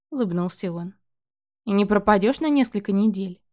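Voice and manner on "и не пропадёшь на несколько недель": louder, insistent question; pressing. Acted. Mother pressing her son to promise he will visit, insistently. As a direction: push him to promise. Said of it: "продолжила давить Ирина".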